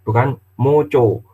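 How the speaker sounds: moco with round O, set against maca; contrast stress. Shown as a demonstration. Teacher contrasting written maca with spoken moco. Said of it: "Tulisannya maca".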